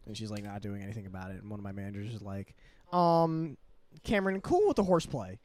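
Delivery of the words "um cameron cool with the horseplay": higher, louder mock telling-off; retold manager scolding. Manager tells Cameron to quit horseplay, mock scolding. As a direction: imitate a manager calling you out.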